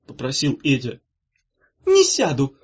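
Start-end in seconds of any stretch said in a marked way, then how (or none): 1.9-2.6 high, loud stubborn refusal; loud, higher stubborn no. A narrator's reading. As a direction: dig in your heels. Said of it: "упрямо сказала сестра".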